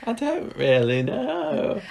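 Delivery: high, slow, dithering Mavis voice; drawn-out, hesitant, high-pitched Mavis; Mavis impression. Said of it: "an impression of Mavis".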